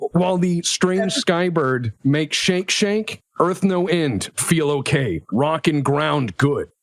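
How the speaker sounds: slow, broken primitive phrasing; feral tribesperson. Acted. Game master describing flight in feral terms, slow. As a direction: spell it out word by word, simply.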